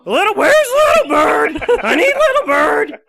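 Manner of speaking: high, loud squawking emu. Acted. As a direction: call out like a frantic emu. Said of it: "That was a very good emu voice".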